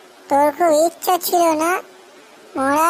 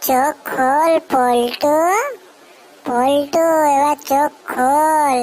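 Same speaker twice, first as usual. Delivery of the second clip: gentle waking call; much slower than usual. Acted. Someone slowly waking Poltu.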